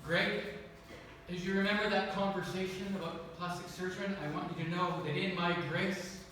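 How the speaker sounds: lightly voiced Lord, hushed and kind; tender voice of the Lord. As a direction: comfort him gently as God. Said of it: "I sensed the Lord say this to me".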